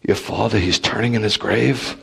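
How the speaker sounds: a hint of a mother begging her son; quiet pleading mother's voice. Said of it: "she said".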